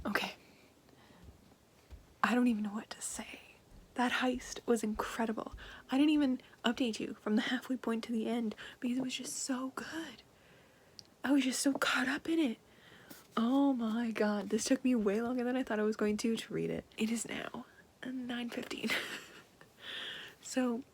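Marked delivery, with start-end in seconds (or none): 2.2-12.6 whispering. Real, not acted. Whispering vlog at night. 17.0-18.9 soft unvoiced whisper. Real, not acted. Whispering at night.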